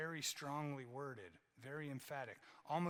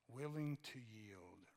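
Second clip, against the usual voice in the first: willing to yield drawn out slow and lower; slow emphatic repeat; 3 semitones lower, slower than usual. Shown as a demonstration. Preacher savoring his favorite translation, slow and weighty. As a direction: linger on "Willing to yield" so it sinks in. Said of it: "the N K J V is my favorite".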